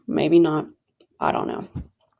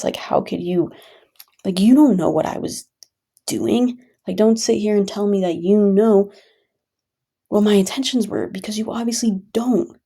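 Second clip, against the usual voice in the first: genuinely pissed; 2 semitones higher, 3 dB louder than usual. Real, not acted. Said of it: "genuinely pissed".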